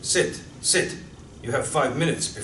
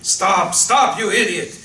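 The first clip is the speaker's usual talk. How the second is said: panicked yell; 2 semitones higher, 4 dB louder, slower than usual. Acted. Truck sliding, officer yelling.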